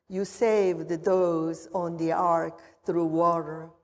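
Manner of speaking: prayer. Acted. Pastor prays over the water.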